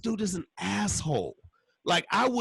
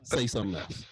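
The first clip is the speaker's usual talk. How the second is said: low, quiet menace with crazy eyes; a veiled threat said low and cold; crazy-eyed dare; 9 semitones lower, 4 dB quieter than usual. Pretend. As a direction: dare him under your breath. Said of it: "It's that crazy eyes".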